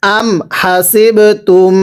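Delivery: slow, evenly measured Quran reading; recite-along model. Shown as a demonstration. Teacher has students read along, slow recitation. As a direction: recite হাসিবতুম slowly, syllable by syllable. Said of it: "আমার সাথে পড়বেন".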